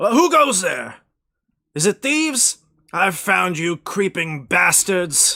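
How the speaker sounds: loud, shouted yell. Narrator voices a figure rising from a snow pile at passersby, yelling. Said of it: "The figure looks around and yells".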